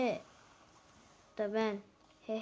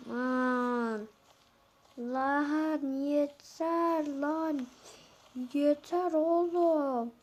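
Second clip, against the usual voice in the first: drawn-out exasperation; 3 semitones higher, much slower than usual. Real, not acted. Fed up with bad loot.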